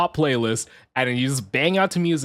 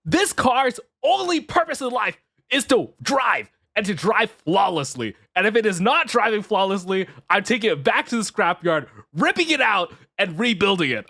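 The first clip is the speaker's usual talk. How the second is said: mock rant at the car; 5 semitones higher than usual. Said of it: "And I'm like".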